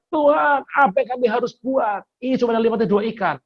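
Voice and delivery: high, fast panicked plea; panicked cry. Retold or imitated. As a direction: cry out to the Lord in alarm, rushing. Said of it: "Dia teriak". (teriakan panik, tinggi dan cepat)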